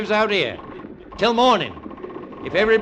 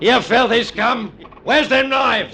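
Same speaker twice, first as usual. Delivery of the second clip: angry demand. Acted. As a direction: snarl it out, shouting. Officer confronts prisoners.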